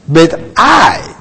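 "I" drawn out and set apart with emphasis; emphatic I. Shown as a demonstration. Teacher quoting Hosea's advice to the priests, emphatic "I". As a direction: lean on "I" and let it stand alone. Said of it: "that's emphatic".

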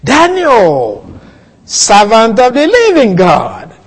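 a touch of anguish, calling out slowly; mild anguish. Retold or imitated. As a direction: call his name, fearing the worst, understated. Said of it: "in an anguished voice".

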